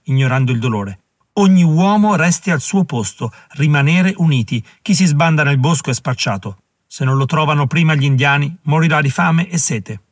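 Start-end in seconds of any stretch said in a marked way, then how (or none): 1.3-10.0 ordine. Acted. Generale impartisce ordini agli uomini.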